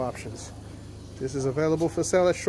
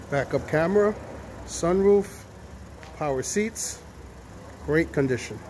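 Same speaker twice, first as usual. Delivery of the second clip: muffled. Real, not acted. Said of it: "Sorry if I sound muffled".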